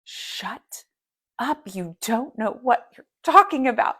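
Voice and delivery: imitating a snap. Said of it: "It was like this".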